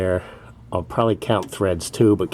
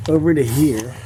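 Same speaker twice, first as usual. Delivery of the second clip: talking while lying under car; strained voice from under car. Real, not acted. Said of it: "I'm under the car here".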